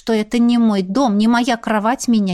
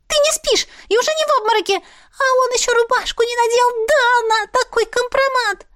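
much higher excited creature voice, teasing; a giddy little mop creature squealing gossip; cheeky talking mop. Acted. Talking mop wakes Dana to ogle a man, high and excited.

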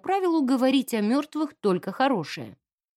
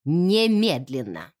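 clanging command; 6 semitones lower, slower than usual. Acted. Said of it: "Голос её лязгнул".

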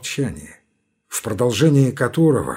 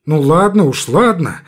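hasty scared; 3 semitones higher, 5 dB louder than usual. Acted. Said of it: "испуганно торопится Федченко".

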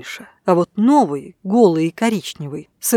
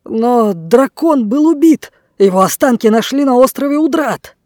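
higher, louder, urgent objection; alarmed protest; 4 semitones higher, 5 dB louder than usual. A narrator's reading. Blackbeard protests to the dragon. (встревоженно, громко)

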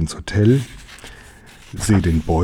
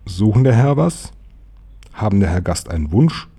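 lightly acted dutiful bellboy; brisk servile question, rising at the end; bellboy at attention. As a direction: ask like a hotel servant standing to attention. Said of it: "stehe stramm und frage".

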